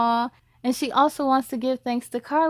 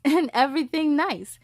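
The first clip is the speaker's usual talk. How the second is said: laughing; 3 semitones higher than usual. Acted. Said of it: "The speaker chuckled".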